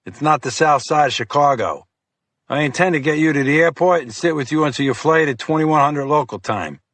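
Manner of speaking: lightly voiced bossy agent; commanding FBI agent. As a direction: lay down the law to the cop. Fiore lays down orders.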